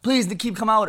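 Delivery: begging. Retold or imitated. Boy outside friend's house asking him out, begging. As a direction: plead like a kid asking a friend out. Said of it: "I used to beg his mom".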